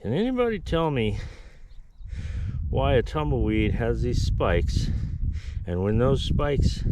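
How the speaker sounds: exasperated. Real, not acted. Exasperated rhetorical rant at viewers.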